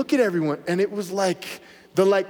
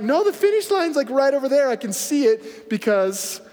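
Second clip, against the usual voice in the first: excited protest; 5 semitones higher than usual. Retold or imitated. Retorting to the coach mid-race.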